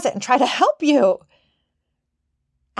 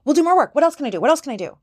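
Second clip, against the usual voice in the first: higher, louder nervous burst of eagerness; frantic workaholic voice; 5 semitones higher, 3 dB louder, much faster than usual. Retold or imitated. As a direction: grab for more work in a panic. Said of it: "she's the one who became kind of a workaholic".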